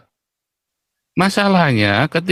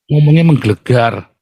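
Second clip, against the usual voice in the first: slightly louder, punched word menggelegar; thundering prophet; 4 semitones lower, 4 dB louder than usual. Shown as a demonstration. Night-time prophet rather than gentle pastor, thundering prophet. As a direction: lightly demonstrate a booming prophet. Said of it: "Kalau malam saya jadi nabi".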